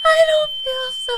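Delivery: soft, woozy voice; weak and fading. Acted. Stung victim telling friend they feel ill, weak fading voice. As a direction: fade as if passing out.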